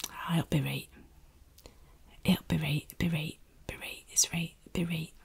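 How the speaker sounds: "it'll be right" whispered, with "right" as "reight"; Yorkshire phrase. Shown as a demonstration. Yorkshire "it'll be right", whispered when things go wrong. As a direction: reassure in broad Yorkshire, "be reight". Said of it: "the thing to say is".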